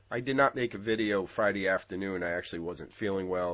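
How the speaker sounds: slightly blocked nose from a cold; a little congested, under the weather; stuffy nose. Real, not acted. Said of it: "I'm a little stuffy".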